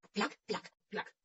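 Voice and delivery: short, separated clacks; clac-clac of sliding tablets; imitated clacking. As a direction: imitate stone tablets knocking as they move. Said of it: "el sonido de las tablas del pacto moviéndose".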